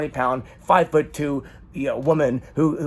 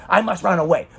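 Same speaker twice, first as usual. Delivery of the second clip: mock melodrama; 4 semitones higher than usual. Mocking the urge to flee an argument.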